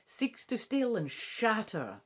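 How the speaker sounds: lightly put-on English accent reciting verse; attempted English accent. Bard reciting lines fed by Faye, in a tentative English accent. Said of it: "I'll try putting on a wee English accent".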